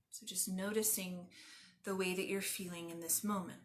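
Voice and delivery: calm, measured meditation guide with long pauses; guided meditation. Acted. Yoga teacher leading listeners lying on the ground, guided meditation. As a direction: guide them gently into stillness, phrase by phrase.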